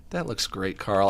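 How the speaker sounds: low, hushed patronising praise; Jimmy. Acted. Jimmy humouring Carl about his drawing, soft and condescending. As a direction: drop it down as if soothing a toddler. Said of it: "it's like he's talking to a toddler".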